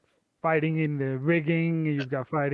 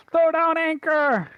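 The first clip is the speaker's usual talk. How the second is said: shouted order; 12 semitones higher, 7 dB louder than usual. Acted. Ship crew under dragon attack.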